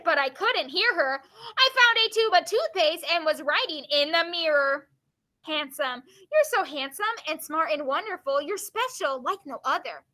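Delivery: lively, expressive read-aloud; poem reading. Acted. Teacher reading a poem to the class, expressive read-aloud. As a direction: read verse with lifted, swinging intonation.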